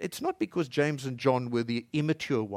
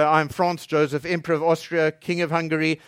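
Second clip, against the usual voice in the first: lightly voiced proud herald naming titles; a touch of grandeur; 4 semitones higher, 8 dB louder than usual. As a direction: announce the emperor with a hint of pomp. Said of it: "someone on behalf of the emperor would say".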